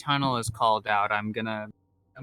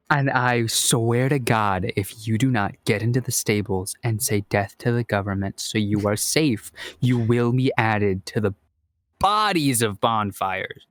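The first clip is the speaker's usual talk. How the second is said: menacing threat; 2 semitones lower than usual. Acted. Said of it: "Give me an intimidation check instead".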